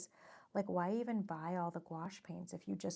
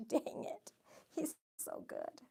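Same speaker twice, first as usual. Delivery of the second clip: whispered envy; 9 semitones higher, slower than usual. Retold or imitated. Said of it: "And I'm like".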